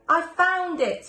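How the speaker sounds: slow, high, loud shout; joyful shout. Acted. Wolf finding his own book, joyful shout. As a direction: call it out with delight, slow and loud. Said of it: "he shouted".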